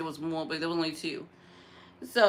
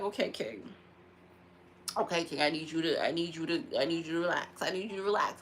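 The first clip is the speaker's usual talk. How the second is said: calming; 6 semitones lower, 5 dB quieter than usual. Retold or imitated. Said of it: "Sometimes I be like".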